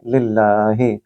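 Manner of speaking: लिल्लाही with a thin ल; light careful लिल्लाही. Shown as a demonstration. Teacher repeating the word, light l. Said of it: "अगर ज़ेर होगी तो उसको हम बारीक पढ़ेंगे".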